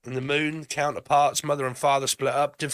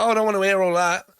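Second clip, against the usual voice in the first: dismissive; 6 semitones higher, 4 dB louder, faster than usual. Pretend. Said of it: "It's kind of like".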